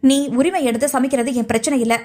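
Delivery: reined-in reproach, measured; controlled anger. Acted. Pavitra confronting her rival over the food poisoning, anger held in check. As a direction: hold the temper down while accusing. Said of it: "கோபத்தை கட்டுப்படுத்தி நிதானமாக கேட்டாள்".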